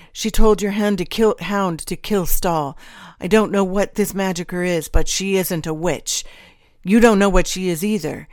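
alarmed protest. A narrator's reading. Gage pleads for his wife and children, alarmed.

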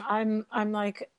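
losing her voice, strained and weak; voice giving out. Real, not acted. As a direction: voice failing mid-sentence. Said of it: "I'm actually losing my voice all of a sudden".

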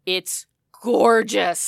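loud, drawn-out gush; gushing admiration. Real, not acted. Raving to co-host about a beautiful film, gushing. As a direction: savour every syllable, loudly awed.

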